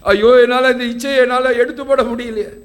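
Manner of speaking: acted bitter lament. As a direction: plead helplessly, as an imitated struggler. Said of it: "மனம் கசந்து அழுகிறவர்களாக இருக்கிறோம்".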